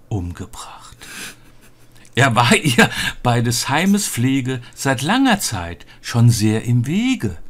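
measured, lilting reading of a Christmas poem; storybook poem delivery with hushed line endings; poem recitation. Acted. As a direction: recite it solemnly, pausing between verse lines.

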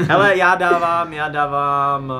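slow, half-sung drawn-out build-up; teasing suspense. Real, not acted. Host drags out his rating for suspense. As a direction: stretch it to tease before the score.

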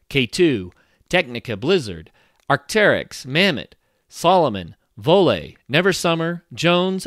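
upbeat radio ad voice; ad read. Acted. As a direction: read it like a sponsor spot. Sponsor ad read.

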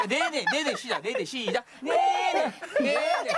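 playing a scratched CD, repeating; glitchy repeat like a stuck disc; skipping cd. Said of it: "이게 씨디가 튀었어".

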